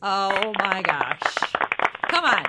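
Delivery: loud, drawn-out exclamation into a punchy shout; whooping with delight; excited cheer. Real, not acted. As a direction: celebrate big news at full volume. Celebrating the niece's scholarship news.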